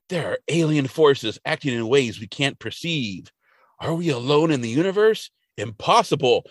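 lightly mock-dramatic musing; dramatic monologue. Mulder monologuing about aliens, a touch of mock grandeur. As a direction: muse aloud with measured pauses. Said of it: "he starts to monologue".

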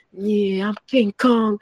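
chest-pounding hype voice; hyped-up King Kong boast. Retold or imitated. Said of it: "I was walking around my house".

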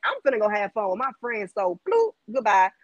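playful kiss-off, popping up on the bloop; sassy brush-off. Retold or imitated. Women to a bothersome man, sassy brush-off. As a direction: cheerfully dismiss him.

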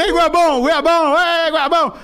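high, loud taunting chant; mocking fans jeering. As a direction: taunt him like a jeering crowd. Mimics fans jeering him. (imitando fãs zombando, agudo e alto)

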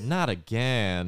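slowly drawn "Not again"; slow drop. Retold or imitated. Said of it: "I'm like".

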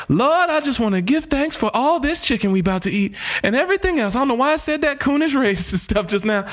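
lightly voiced grace at the dinner table; mock dinner prayer. Joking to a friend, a mild praying voice. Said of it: "they're like".

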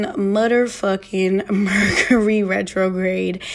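slow, emphatic repeat. Real, not acted. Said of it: "repeats it slowly, laughing".

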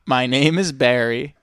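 slow, halting dramatic recital; dramatic poem reading. Shown as a demonstration. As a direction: read it slow with big pauses. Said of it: "It says".

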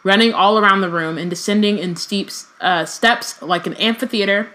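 reading a novel aloud, even and measured; story narration. Acted. Reading Harry Potter aloud to a podcast co-host, narration voice. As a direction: read it like an audiobook chapter.

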